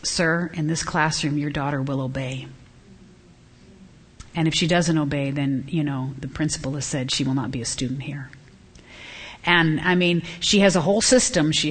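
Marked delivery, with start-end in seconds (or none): 0.0-8.3 soft, low teacher voice, imitated; calm, lowered, understated firmness; loving but firm. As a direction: gently lay down the rule to a parent. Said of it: "Sarah very lovingly said".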